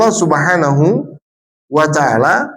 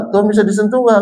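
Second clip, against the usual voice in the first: lightly voiced sweet teacher, higher; kindergarten teacher voice; 5 semitones higher, faster than usual. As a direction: talk sweetly to small children. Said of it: "seorang guru mengatakan gini".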